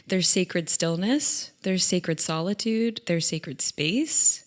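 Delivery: slow, calm reflective list. Real, not acted. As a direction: savour each sacred word.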